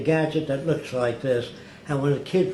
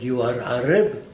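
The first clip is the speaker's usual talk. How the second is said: put-on light Arab-accented broken English, a bit louder; Arab leader asking if he is Arab, a hint of Arabic-accented English; imitating his Arab speech; 4 dB louder than usual. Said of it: "That's the way he spoke".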